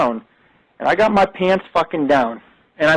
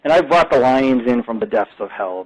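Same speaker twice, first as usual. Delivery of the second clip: panting after running downstairs; breathless, winded speech; out of breath; 6 semitones lower than usual. Real, not acted. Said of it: "you can tell I'm out of breath".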